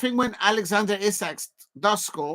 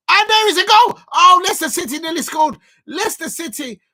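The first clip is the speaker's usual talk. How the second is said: high, very loud goal call; excited goal shout; 10 semitones higher, 9 dB louder than usual. Real, not acted. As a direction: burst out shouting, then drop the volume as it misses. Live call of a near goal.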